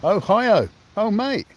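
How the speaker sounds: high, bright "Ohio" and "Oh, mate"; light up hearing a viewer is from Ohio; excited recognition. Real, not acted.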